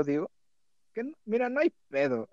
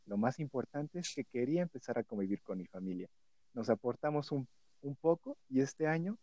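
sensual voice; 3 semitones lower than usual. Acted. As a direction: read it low and seductive. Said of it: "lo voy a leer con voz sensual".

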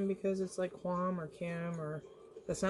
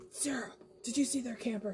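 imitating Josh; 5 semitones higher, 3 dB quieter than usual. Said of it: "He's like".

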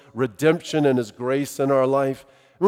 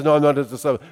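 lightly acted, lower denial; Peter's denial; 3 semitones lower, much faster than usual. Peter answers the accusing young woman, lightly acted denial. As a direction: dismiss the charge, dropping back down. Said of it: "this young woman who asks".

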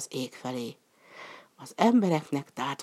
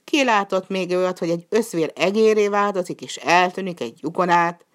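louder, higher scolding question; angry disbelief; 4 semitones higher, 5 dB louder than usual. Acted. Master scolding the slave's mule story, loud and higher. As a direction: scold him for talking nonsense. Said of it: "kiáltott a gazdája".

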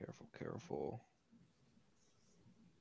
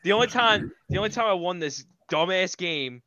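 higher, heated frustrated outburst; real frustration; 6 semitones higher than usual. Real, not acted. Losing contestant griping about his one win, frustrated. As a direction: burst out in exasperation, pitch up. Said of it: "frustrated. Sorry".

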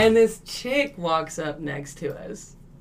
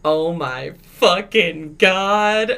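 drawn-out shocked exclamation; 7 dB louder, much slower than usual. Retold or imitated. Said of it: "And I was like".

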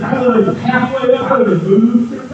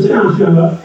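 wife quoting; 4 semitones lower, 4 dB louder, faster than usual. Retold or imitated. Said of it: "she was like".

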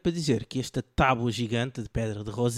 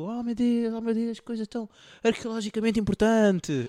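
mock amazement; 7 semitones higher than usual. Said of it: "ficaram todos muito".

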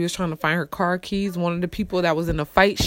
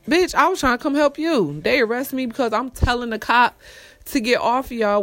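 pitched higher, heated and exasperated; retold indignant retort; 5 semitones higher than usual. To her shocked friend in the paddy wagon, higher indignant retort. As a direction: replay her outraged answer. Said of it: "I'm like".

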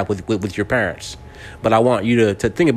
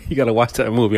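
quick words spilling out through a laugh; faster than usual. Real, not acted. Urging viewers to watch Django while laughing, rushed. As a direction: laugh it out fast. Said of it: "I'm meant to be laughing like that".

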